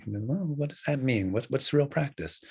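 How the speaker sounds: a touch of bewilderment; puzzled student. Retold or imitated. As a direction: imitate a student wondering what was meant. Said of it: "student kind of scratches his head".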